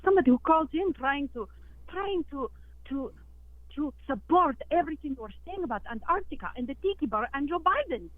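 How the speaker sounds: hurt and outraged, pitch climbing; indignant. Acted. Offended caller scolds host.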